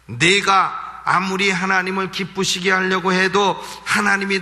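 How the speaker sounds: a hint of a sneering devil. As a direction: taunt the believer the way the devil would. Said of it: "이렇게 하는 소리가 바로 마귀의 소리예요".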